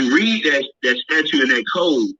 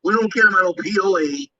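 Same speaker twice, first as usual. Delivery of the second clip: threatening letter voice; 4 semitones higher than usual. Retold or imitated. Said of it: "a threat letter with this code".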